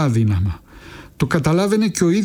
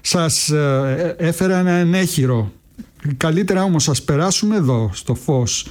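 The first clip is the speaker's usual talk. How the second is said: higher, cracking, shaky-voiced young man; nervous visitor to the old pawnbroker, voice cracking; voice breaking, trembling; 4 semitones higher than usual. A narrator's reading. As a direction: try to sound casual but the voice betrays you. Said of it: "έσπασε και άρχισε να τρέμει".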